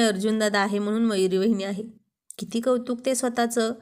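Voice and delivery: parroting his words back with a pout; wife mimicking husband's self-praise, pouting and mocking; mocking imitation. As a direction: mimic his boast to tease him. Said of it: "असं म्हणत तोंड मुरगाळलं".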